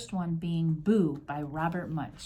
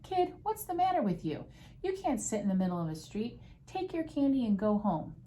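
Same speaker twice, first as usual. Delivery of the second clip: lightly voiced policeman, pitched high; mildly exasperated officer ticking off a kid; storybook scolding, high at the start; 5 semitones higher than usual.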